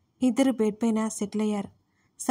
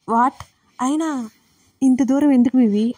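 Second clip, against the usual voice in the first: louder, a startled outburst; shocked; 3 semitones higher, 7 dB louder than usual. Acted. Sister hears her sibling is leaving for Mumbai, shocked. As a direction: blurt it out in disbelief.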